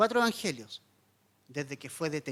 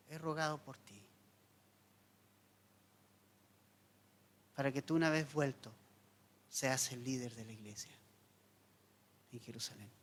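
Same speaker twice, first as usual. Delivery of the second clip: low, soft, unhurried quoted Jesus; gentle reassurance; 5 semitones lower, 7 dB quieter than usual. Retold or imitated. Jesus tells Peter he has prayed for him, gently reassuring. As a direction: reassure quietly, letting the voice sink.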